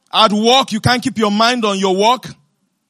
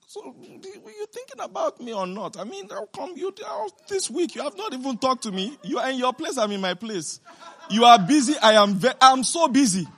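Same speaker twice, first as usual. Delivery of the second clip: put-on grown child's complaint; 3 semitones higher than usual. Grown child complains the mother never calls, mock whine. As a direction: play the neglected child, whining lightly. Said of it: "Sometimes they say".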